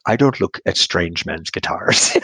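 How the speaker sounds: slow attempted British accent, turning Irish; British accent slipping into Irish. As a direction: imitate a British woman slowly, drifting Irish. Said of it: "in a very beautiful British accent".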